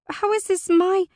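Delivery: high, loud objection; indignant protest. A narrator's reading. Alora folds her arms against the blame, indignant. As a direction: protest sharply until cut off.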